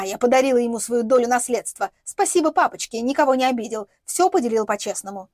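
usual speaking voice

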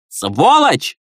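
a wife's high furious insult; angry outburst. Acted. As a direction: spit it out while slapping. Second slap to husband.

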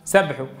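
low "سبحه" with only a throaty ḥ; reverse merging error. Shown as a demonstration. Teacher showing the mistake, h swallowed by ḥ. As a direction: say "سبحه" quickly as sabḥu, the h lost. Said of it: "أدغم الهاء في الحاء".

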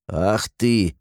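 mildly affronted exclamation; a touch of breath-taken indignation; choked with offence. A narrator's reading. Gremlin refused the elixir, mildly choked with offence. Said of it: "задохнулся от обиды Гремлун".

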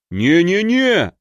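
hammed-up panicked yell; yelling refusal. A narrator's reading. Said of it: "опять заорал Магнус". (громкий испуганный крик)

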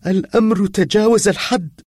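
put-on distraught girl gasping through tears; sobbing gasp. A narrator's reading. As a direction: blurt it out between gasping sobs. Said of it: "وهي تشهق بعنف".

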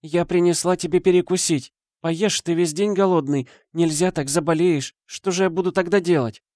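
high, coaxing mother's voice; worried mother. A narrator's reading. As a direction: fuss over the son through the door. Мать уговаривает сына поесть. (заботливая мать)

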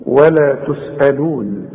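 ولا تسألون recited slowly with light, thin letters; thin tajweed recitation. Shown as a demonstration. Teacher showing a student light letters. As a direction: keep every letter light and slow. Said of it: "كلها برضه مرققة".

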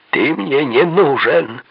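loud, slow, high furious yell. A narrator's reading. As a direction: yell it right in his face. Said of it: "заорал Мэддокс".

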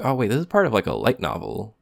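mild surprise, dropping back at the end; sudden realization. Retold or imitated. Podcaster recalling his discovery to his co-host, sudden realization.

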